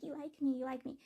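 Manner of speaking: lightly imitated pouty teasing; cute, clingy teasing. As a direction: mimic a clingy sweetheart, pitched a little up. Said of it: "being pouty and being clingy and being all kissy".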